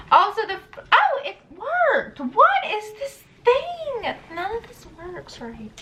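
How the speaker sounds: a little tipsy, words sliding. Real, not acted. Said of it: "I'm a little tipsy".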